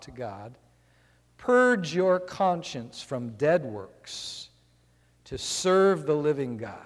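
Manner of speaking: slow, solemn reading of Bible verse; scripture reading. Acted. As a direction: read the verse slowly and gravely. Preacher reads Hebrews aloud.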